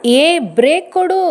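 husband screams at wife to brake; screamed. Acted. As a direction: yell for the brake as the car lurches. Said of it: "ಕಿರಿಚಿದ Surendra".

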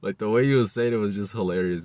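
laughing through the words; talking while cracking up. Real, not acted. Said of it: "I can't help but laugh".

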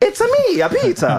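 high, loud hammed-up Italian pizza man; mock Italian pizzeria accent. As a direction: belt it out like a cartoon pizzaiolo, laughing. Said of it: "the nigga is flipping that thing".

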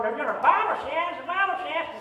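hammed-up Southern preacher accent, pitched high; mock Southern preacher accent repeating himself; bad Southern accent. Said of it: "a bad Southern accent going".

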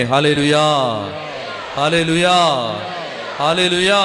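ringing praise cry rising. Real, not acted. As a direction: call hallelujah out to the crowd. Preacher leads hallelujah shout.

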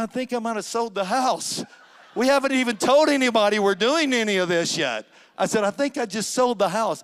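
breathless, laughing astonishment; excited disbelief. Retold or imitated. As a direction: relive the giddy shock of selling the house. Retelling his astonished sale.

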